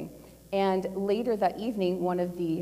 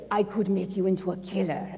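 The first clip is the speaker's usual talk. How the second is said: put-on lightly done Russian accent; a hint of a Russian accent. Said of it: "forgive my Russian accent".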